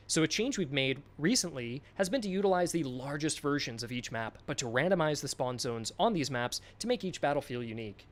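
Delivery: measured documentary narration read; narrator voice. Shown as a demonstration. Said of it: "in the narration voice".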